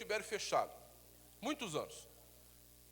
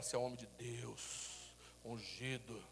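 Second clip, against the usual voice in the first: tender blessing; 6 semitones lower, 10 dB quieter, slower than usual. Shown as a demonstration. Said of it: "Olha pro teu marido e fala".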